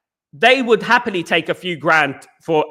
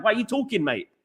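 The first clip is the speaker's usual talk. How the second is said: mock challenge; 3 semitones higher, 5 dB quieter than usual. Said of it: "That's what I would say to him".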